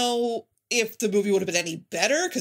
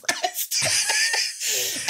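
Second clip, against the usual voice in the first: laughing. Real, not acted. Laughing at the scene.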